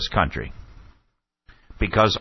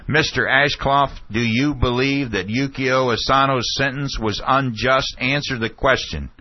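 raised pitch, mildly forceful retelling; firm and loud; 5 semitones higher than usual. Retold or imitated. Questioner pressing the former Attorney General, firm imitated demand. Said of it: "said firmly and louding, loud, loudly".

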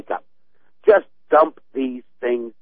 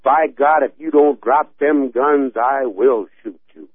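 determined threat; 2 semitones higher, 5 dB louder than usual. Shown as a demonstration. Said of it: "that's the difference".

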